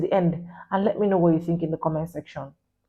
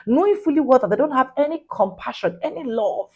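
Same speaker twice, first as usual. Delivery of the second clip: indignant; 3 semitones higher than usual. Real, not acted. Indignant rant at adoptive parents.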